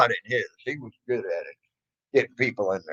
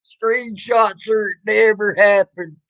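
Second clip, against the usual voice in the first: mocking quote; 3 semitones higher, slower than usual. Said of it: "That is the stupidest fucking troll saying".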